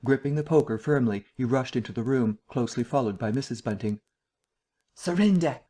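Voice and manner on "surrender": a sharp, higher, louder cry of Surrender; fierce cry. A narrator's reading. Vicar bursting into the study, crying out fiercely. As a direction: bark it at the burglar. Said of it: "cried Mister Bunting fiercely".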